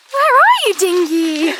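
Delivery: high, loud call to the dog. Real, not acted. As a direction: call him from a distance, sing-song. Calling the dog in the forest.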